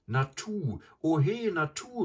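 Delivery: hoher, lauter Ruf; lautes Rufen. A narrator's reading. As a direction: ruf den Namen hell hinaus wie über eine Entfernung. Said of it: "rief Mowgli". (Mowgli antwortet der Frau, laut rufend)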